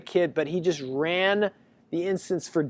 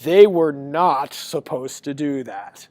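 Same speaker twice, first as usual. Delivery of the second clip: mild angry protest; slower than usual. Retold or imitated. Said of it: "I got very mad over the phone".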